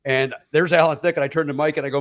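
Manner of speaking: ordinary delivery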